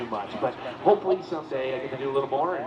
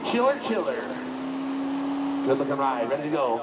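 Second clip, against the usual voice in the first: hyped announcer. Acted. Announcer hyping a tractor pull.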